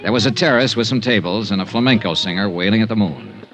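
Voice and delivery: dry detective voiceover; hardboiled narration. A narrator's reading. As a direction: read the expense report like a tired PI. Expense report narration.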